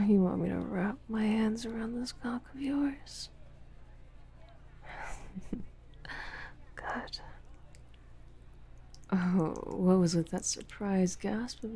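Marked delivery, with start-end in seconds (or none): 3.3-6.7 short breathy chuckle; quiet, teasing huff of laughter; taunting chuckle. Acted. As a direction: laugh softly under the breath. Teasing partner in audio roleplay.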